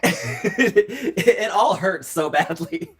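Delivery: slow, loud hammed-up sob; mock wailing. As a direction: wail it like melodramatic heartbreak. Wailing about intense relationships, laughing.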